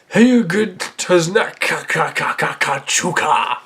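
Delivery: slow, stuttering gibberish in a put-on voice; alien gibberish. Child hero hearing aliens, nonsense alien voice. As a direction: rattle the repeated syllables like alien speech. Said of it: "they sounded like to me was".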